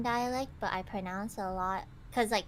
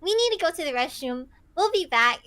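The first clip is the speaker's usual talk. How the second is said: fake excuse; 6 semitones higher, 8 dB louder than usual. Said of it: "half of us would be like".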